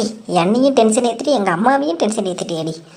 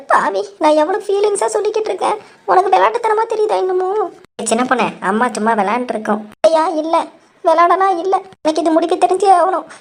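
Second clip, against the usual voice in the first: fake crying; 5 semitones higher than usual. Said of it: "இவ்வளோ நேரம் அழுத".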